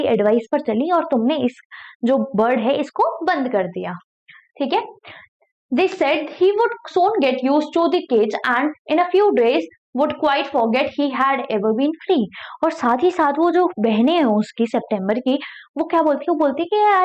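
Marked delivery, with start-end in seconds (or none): 5.7-12.2 slow, careful read-aloud of a story. Acted. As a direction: read each word slowly for learners. Reading the English story aloud. (धीमी कहानी पढ़ाई)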